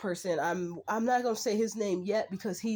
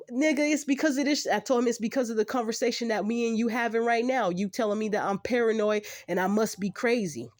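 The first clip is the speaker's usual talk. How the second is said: higher, louder, exasperated comeback; heated retort; 4 semitones higher, 4 dB louder than usual. Retold or imitated. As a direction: fire back indignantly, pitch raised. Heated retort retold to the officer.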